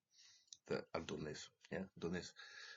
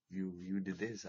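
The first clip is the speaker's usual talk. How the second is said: accusing guard. Retold or imitated. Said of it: "the guy said".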